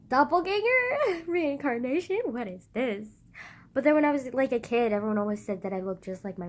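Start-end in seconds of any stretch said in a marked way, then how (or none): 0.1-3.1 high, loud, drawn-out questioning; mock astonishment. Marvelling at resemblance to great-grandma, mock astonishment. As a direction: squeal it slowly in playful disbelief.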